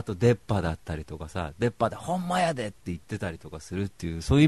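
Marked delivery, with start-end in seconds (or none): 1.9-2.6 light mock Kansai accent, a bit higher; lightly done Kansai dialect. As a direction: toss off a Kansai phrase. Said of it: "関西人なんだ".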